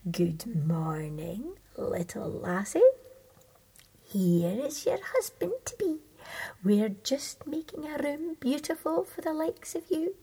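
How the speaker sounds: lightly voiced sly old toad. Toads introducing the husband to Thumbelina, falsely sweet. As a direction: greet her with false sweetness.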